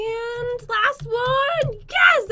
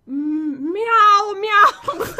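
cat princess meow; 2 semitones lower, 3 dB louder, much slower than usual. Pretend. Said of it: "can you do the princess voice?".

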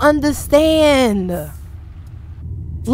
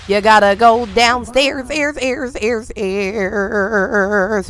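word ending repeating and fading away; mouth-made echo effect; imitated echo; 5 semitones lower, 6 dB quieter, slower than usual. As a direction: make your own echo on the last syllable, trailing off softly.

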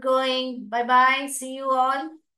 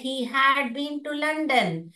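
very slow, every word spaced out; slow demo sentence; 2 semitones higher, much slower than usual. Shown as a demonstration. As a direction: read it out slowly, like a model sentence. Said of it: "जब मैं बताऊंगी तब ये बीन".

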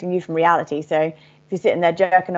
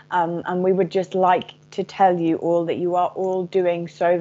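steady, measured message spoken as the collective "we"; channeled message. Acted. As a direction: deliver a gentle message from star beings to listeners.

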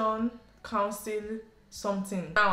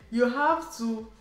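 higher, firm, slow on "do French as a language"; insistent father; 4 semitones higher than usual. Retold or imitated. Father insisting his daughter must study French, in a higher, firm mock scold. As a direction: press the rule on her like a stern parent.

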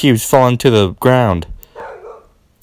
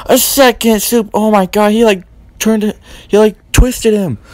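excited call; 6 semitones higher than usual. Acted. Calling the powerbomb.

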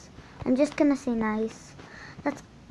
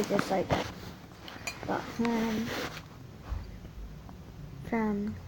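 words through a mouthful; chewing while talking; 10 dB quieter than usual. Real, not acted. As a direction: talk while chewing food. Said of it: "I'm chewing".

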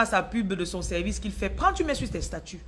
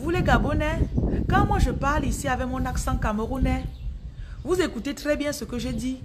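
higher-pitched, measured Gabonese French; Gabonese accent; 4 semitones higher than usual. Shown as a demonstration. Cameroonian coach teasing Gabonese listeners, in an imitated Gabonese accent. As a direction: put on a careful Gabonese accent. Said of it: "En camerounais maintenant".

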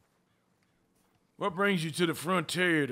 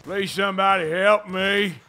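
hammed-up cowboy plea, louder; calling for help; 3 semitones higher, 5 dB louder than usual. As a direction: call out for rescue. Tied-up character calls for help.

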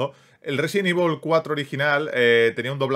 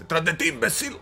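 higher pitched warning shout at the game; yelling at the screen; 5 semitones higher than usual. Real, not acted. Gamer warns the on-screen character, excited yell. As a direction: warn the character, half laughing, half scolding.

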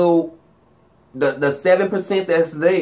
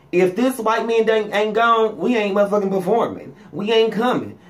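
defiant players; 5 semitones higher than usual. Retold or imitated. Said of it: "Them little black boys said".

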